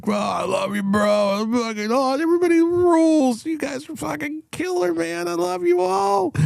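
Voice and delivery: put-on high, gushing drunk buddy; hammed-up loving drunk, way up high; sloppy affectionate drunk voice; drunk happy bro voice. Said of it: "I'm like".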